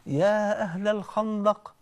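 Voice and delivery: long, drawn-out call to a crowd; imitating a summons, slow and sustained. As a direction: hail them with stretched-out vowels. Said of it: "وراح منادى على الصحابه".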